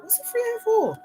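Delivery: puzzled question. Retold or imitated. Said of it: "and I was like".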